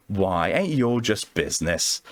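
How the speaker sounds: slow, lightly put-on Southern drawl; mild Southern belle, unhurried; Southern accent. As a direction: tease him in a lazy Southern lilt. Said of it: "God, I hate this accent".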